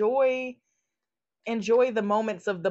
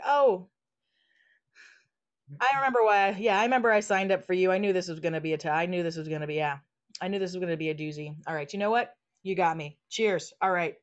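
magical dragon self; 3 semitones lower, faster than usual. Retold or imitated. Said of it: "be like".

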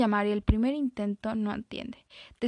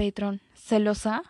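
mischievous tease; 4 dB louder than usual. Acted. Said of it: "sonríe pícaramente".

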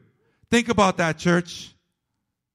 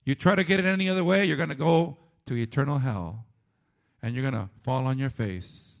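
fast then sinking much lower and softer; quiet warning; 9 semitones lower, 6 dB quieter than usual. Acted. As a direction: drop the voice to a grave aside. Sudden drop after climax.

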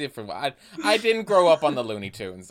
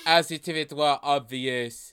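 put-on French-accented reading. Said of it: "say it in a French accent".

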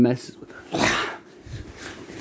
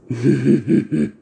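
evil laugh; 4 dB louder than usual. Acted. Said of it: "the Blair Witch looks on and laughs".

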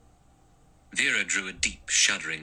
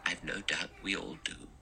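put-on dry, softer old-lady retort; dry remark; 9 dB quieter than usual. A narrator's reading. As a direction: answer dryly, unimpressed. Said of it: "Emily Brent said dryly".

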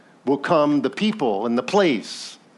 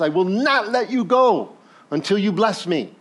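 a touch of Jacob's stubborn plea, a little higher; cling on and refuse to let go; Jacob pleading; 5 semitones higher than usual. Acted. Jacob to the angel, holding on, lightly voiced stubborn plea.

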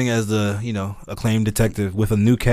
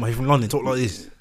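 mock British accent; 4 dB quieter than usual. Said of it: "he doesn't talk like that".

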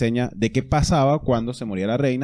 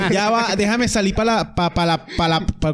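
laughing; 6 semitones higher than usual. Real, not acted. Laughing at a friend's joke.

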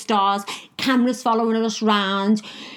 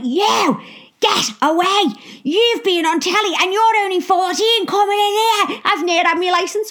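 loud, high, furious telling-off; club owner shouting; 10 semitones higher, 5 dB louder than usual. Retold or imitated. Club owner throwing out the fourteen-year-old, shouting angrily. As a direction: bark her out of the club, much higher.

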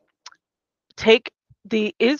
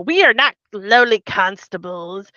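pompous senator impression. Mocking the senators' excuses in a pompous voice. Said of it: "What a great impression".

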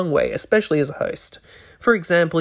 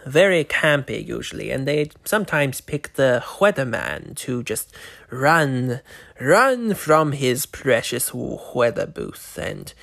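Vincent the Vampire; 2 semitones lower than usual. Acted. Vampire host welcoming viewers to his segment, lightly voiced. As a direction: play a campy, morbid vampire hosting his show, mildly.

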